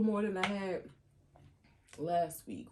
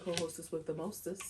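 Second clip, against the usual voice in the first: smooth, sultry newscaster sign-off; sexy news reporter; 4 dB quieter than usual. Real, not acted. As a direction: purr it like a late-night anchor. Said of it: "I said that like a news, like a sexy news reporter".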